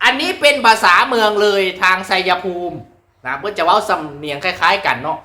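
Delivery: ordinary talk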